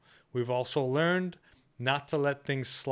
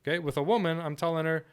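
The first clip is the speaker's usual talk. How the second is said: ordinary talk, nothing marked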